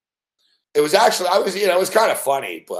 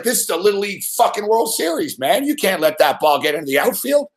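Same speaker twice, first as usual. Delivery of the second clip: getting madder; 4 semitones higher than usual. Retold or imitated. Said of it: "And I started getting madder".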